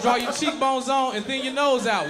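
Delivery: loud, drawn-out mock-disgusted wow; scornful mimicry. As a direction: throw the disapproval back, hammed-up. Throws ex's scornful wow back.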